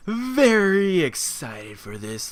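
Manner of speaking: excited. Real, not acted. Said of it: "I'm looking at the timer as I'm saying very".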